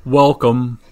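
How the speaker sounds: lilting sing-song welcome. Acted. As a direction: sing it out lightly. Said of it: "he says in, like, a sing-song kind of way".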